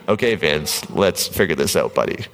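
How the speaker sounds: a gentle, kind word to your own fear; loving tone. Pretend. Talking to his amygdala Vince, lovingly reassuring. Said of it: "if we treat it with love".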